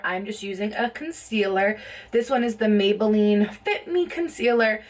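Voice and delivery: slightly out of breath, huffing. Real, not acted. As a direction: talk while a bit winded. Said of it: "I don't know why I'm out of breath".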